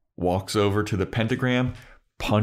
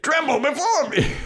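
much higher squeaky little demon. Retold or imitated. Demon shouting repeatedly.

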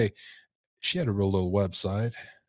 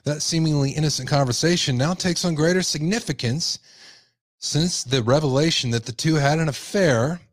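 emphatic news-story read; projected article narration; 4 semitones higher than usual. Acted. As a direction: read out the report like a newscaster.

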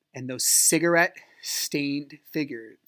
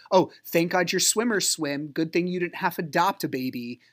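mildly mocking imitation of a mother-in-law's dig; obnoxious jab; 3 semitones higher than usual. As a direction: needle him with mock relief, a little higher. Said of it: "just obnoxiousness".

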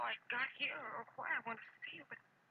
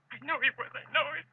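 frightened insistence; 4 semitones higher, 12 dB louder than usual. Acted. Frightened woman insists she's followed.

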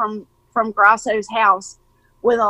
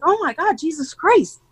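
higher-pitched mock dismay breaking into laughter; laughing exasperation; 7 semitones higher than usual. Speaker retelling how they dreaded getting involved, laughing exasperation. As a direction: retell your own exasperation, laughing through the end.

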